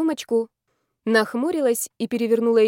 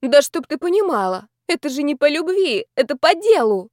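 higher, emphatic tipsy protest; affronted, louder on the final phrase; offended; 6 semitones higher, 4 dB louder than usual. A narrator's reading. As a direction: insist on it with wounded dignity. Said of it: "Я оскорбилась".

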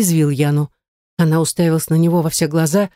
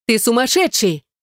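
shouting; 6 semitones higher than usual. A narrator's reading. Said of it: "начала кричать она".

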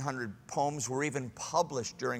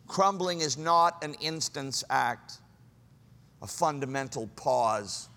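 slow reading. Real, not acted. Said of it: "read it to you slowly".

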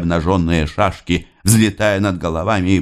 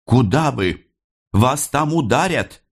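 anxious warning; 7 semitones higher than usual. A narrator's reading. Mother keeps warning Nikolai.

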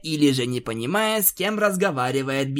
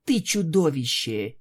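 quiet anger. Acted. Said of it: "тихо, но злобно произнесла".

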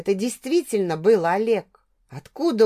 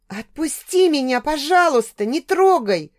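a higher, louder begging plea; pleading, near tears; 6 semitones higher, 4 dB louder than usual. A narrator's reading. Heroine begs her drunk ex to let go, near tears. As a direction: beg him on the edge of crying. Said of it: "продолжала просить я, почти плача".

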